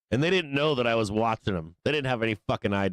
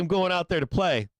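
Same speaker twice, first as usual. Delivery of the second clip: eager dog voice; 7 semitones higher than usual. Retold or imitated. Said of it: "He's like".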